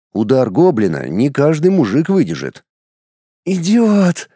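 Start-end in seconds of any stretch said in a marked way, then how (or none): 3.4-4.3 pained moaning cry; hurt woman moaning an insult; moaned. A narrator's reading. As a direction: groan it out in pain. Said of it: "простонала она".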